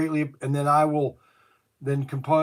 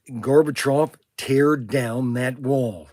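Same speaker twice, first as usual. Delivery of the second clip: Ronald Reagan; 3 dB louder, slower than usual. Retold or imitated. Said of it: "Ronald Reagan was one of my best in- impersonations".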